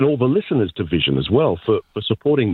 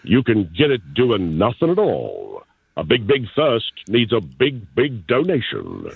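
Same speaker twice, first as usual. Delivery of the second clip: ad jingle read. Shown as a demonstration. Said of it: "I'll try something on the spot".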